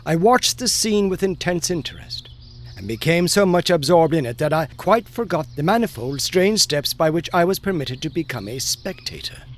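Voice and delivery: ordinary delivery, nothing marked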